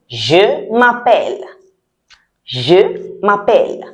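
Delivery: slow teacher demo, word by word; slow model pronunciation. Shown as a demonstration. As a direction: say it slowly for learners to copy. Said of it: "say it the same way as I say it".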